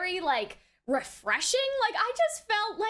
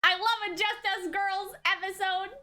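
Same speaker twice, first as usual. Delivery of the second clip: excited; 3 semitones higher than usual. Real, not acted. Cheering at the episode.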